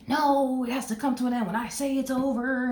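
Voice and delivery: mock stubborn ex. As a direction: play the ex who must have the last word. Voicing the proud ex's mindset.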